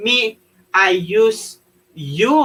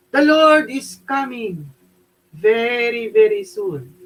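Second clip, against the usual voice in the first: excited announcement; 2 semitones higher than usual. Shown as a demonstration. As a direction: make them thrilled about the coming. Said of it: "You want them to be excited".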